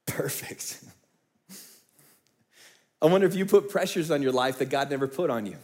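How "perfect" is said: soft breathy whisper; hushed amused whisper; whispered perfect. Retold or imitated. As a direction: breathe it gently as God's reply. God's whispered reply.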